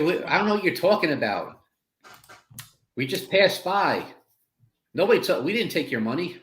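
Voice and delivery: high-pitched plea of innocence; pleading protest. Acted. Player pleads innocence to goblin.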